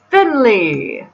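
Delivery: drawn-out call, falling in pitch. Acted. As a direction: call up to someone on another floor. Calling someone on the upstairs balcony.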